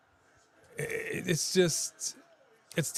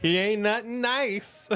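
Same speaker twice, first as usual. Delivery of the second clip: laughing; 8 semitones higher than usual. Retold or imitated. Laughing at the pastor bit.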